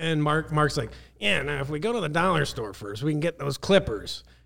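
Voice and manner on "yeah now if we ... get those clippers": put-on, gross-sounding voice. Retelling what Mark said at the condo: gross impersonation of Mark. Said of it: "that's my gross impersonation".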